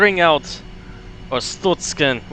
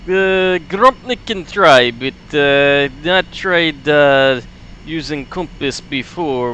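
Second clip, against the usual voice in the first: put-on Soviet accent. Grumpnik briefing comrade on navigation, light Russian accent. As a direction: ham up Grumpnik the Russian pilot. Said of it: "Soviet sound voice".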